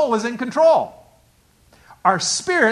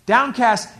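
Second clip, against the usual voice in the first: Downcast hit hard and louder; punched word; 3 semitones higher, 5 dB louder than usual. Shown as a demonstration. Preacher hits Downcast hard for the congregation. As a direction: land Downcast with weight. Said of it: "the Hebrew word means despair".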